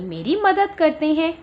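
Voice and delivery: normal talking voice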